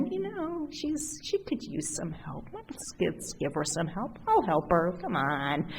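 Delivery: confidential aside. Retold or imitated. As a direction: say it privately, hushed.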